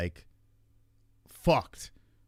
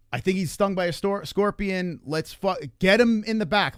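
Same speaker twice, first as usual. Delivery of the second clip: higher, mildly urgent retold demand; urgent plea; 5 semitones higher than usual. Father to clinic staff about a stung child, mildly urgent. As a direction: press them to act, re-enacting the rush.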